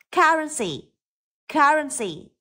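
Currency starting on a hard k; careful model Currency with a clear k; hard K sound. Shown as a demonstration. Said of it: "Cũng là âm K". (phát âm Currency với âm k ở đầu)

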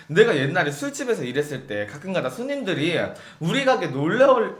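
usual speaking voice

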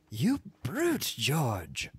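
high-pitched outraged cry; screamed reproach. A narrator's reading. Furious wife screaming at her husband, high-pitched. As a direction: shriek it at him, high. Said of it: "she screamed".

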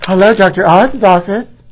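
lightly acted receptionist picking up the phone; a hint of a phone-answering receptionist; customer service voice. Receptionist at Doctor Oz's office answering a call, lightly played. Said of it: "this is my part".

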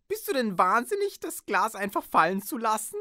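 snapping at him. Acted. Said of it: "herrschte er Faust an".

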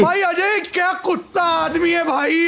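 drawn-out, high-pitched complaint; real, stretched-out protest; exasperated shout. Real, not acted. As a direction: cry out slowly in outrage at a friend. Outraged at friend grabbing the catch.

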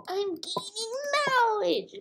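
high-pitched laughing repeat; laughing squeal. Pretend.

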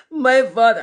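exaggerated, forceful storybook voice; corrected character voice. Shown as a demonstration. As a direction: pitch up and project as the rocket character. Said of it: "The, uh, wrong voice".

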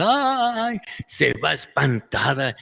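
tiny startled high yelp; frightened ant squeak. Retold or imitated. The ant recoils from the cake, frightened squeak. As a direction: squeak like a scared little ant. Así dije.

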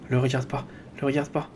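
soft, tense repeat under the breath; muttered self-warning. Real, not acted. Gamer mutters to himself while swimming past the shark, softly tense. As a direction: mutter it to yourself, eyes on the shark.

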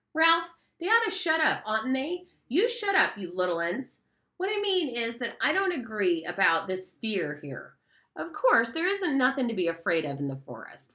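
a hint of a know-it-all schoolboy arguing; lightly voiced earnest fat boy. Piggy scolds and argues.

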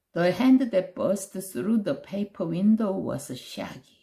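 plain reading voice

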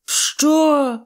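high, loud "що?"; outraged yell. A narrator's reading. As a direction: bellow in outrage. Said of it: "заволав Жуліо". (обурене високе волання)

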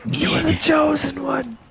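high, slow anguished wail; mock tragic lament. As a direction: wail it like a betrayed mentor. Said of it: "parodied movie lament".

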